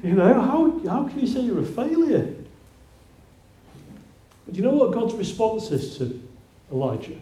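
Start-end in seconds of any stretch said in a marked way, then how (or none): 0.0-2.3 pleading shout. Retold or imitated. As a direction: shout at him he's a hero. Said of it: "you feel like you're screaming at him".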